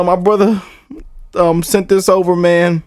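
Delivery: ordinary talk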